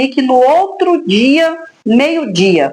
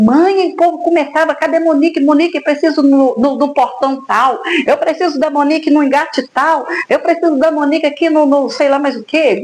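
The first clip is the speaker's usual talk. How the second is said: higher, lively voice full of excitement; excited retelling; 4 semitones higher than usual. Retold or imitated. Daughter excitedly telling her mother about the airport, excited. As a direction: bubble over like a thrilled teenager. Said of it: "toda animada".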